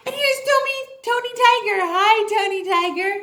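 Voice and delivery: high squeaky puppet tiger, excited; Tony Tiger puppet voice. Acted. Teacher voicing a tiger puppet for little readers, squeaky and high. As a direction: squeal it like a cartoon tiger greeting kids.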